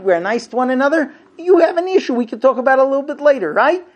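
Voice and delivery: loud, rising, mocking lecture to the wife; huffy husband lecturing his upset wife; indignant rant. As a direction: talk down to her, speeding up at the end. Natural male reaction, ranting lecture.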